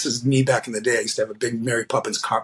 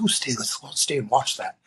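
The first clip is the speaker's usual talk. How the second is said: a second faint Robin Williams, barely shifted; retry at Robin Williams; 2 semitones lower than usual. Retold or imitated. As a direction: have another go at Robin Williams, still lightly. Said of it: "I can't do Robin Williams".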